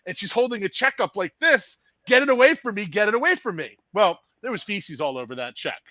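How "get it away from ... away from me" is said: higher, louder plea from a panicked coworker; imitated panic. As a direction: act out her alarm, easing slightly on the repeat. Voicing screaming coworker holding check.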